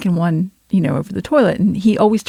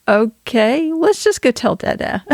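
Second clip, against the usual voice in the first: higher, singsong parent voice; mother to child; 5 semitones higher, slower than usual. Retold or imitated. Mother retelling her reply to son, high parent voice. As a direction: pitch it up as if steering a small child.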